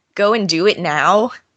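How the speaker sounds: ordinary talk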